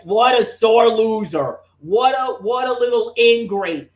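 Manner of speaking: mild mock yell, indignant; retold yelling. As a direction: punch out the insults like a ranting commentator. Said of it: "that's when I started yelling".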